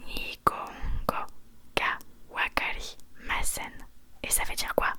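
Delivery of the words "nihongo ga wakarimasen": «Nihongo ga wakarimasen» spelled out slowly in a whisper, syllable by syllable; slow whispered Japanese. Shown as a demonstration. Teacher showing a student how to say «Nihongo ga wakarimasen». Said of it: "tu vas dire".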